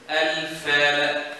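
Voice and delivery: Al-falaq slowed right down, air flowing on the fa; slow tajweed demo of the fa; whispered fa. Shown as a demonstration. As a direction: stretch Al-falaq and let air hiss through the fa. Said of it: "is hams, whispering".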